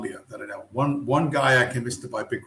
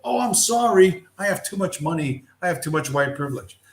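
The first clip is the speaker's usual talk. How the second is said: high, loud sarcastic whine, fading back down; mock apology; 5 semitones higher, 3 dB louder than usual. Mocking the tiptoers, a high sarcastic whine. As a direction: parody a guilty, apologetic rich guy. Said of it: "get you to go".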